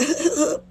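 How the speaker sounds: imitated sobbing in short, high bursts; mock crying. Imitating the crying ex-boyfriend in the parking lot, mock sobbing. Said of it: "he starts crying. He's like".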